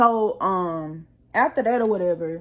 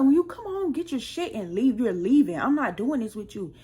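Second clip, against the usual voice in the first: higher, firm retold ultimatum; 3 semitones higher than usual. Telling husband to pack and leave, a firm retold ultimatum. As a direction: lay down the law.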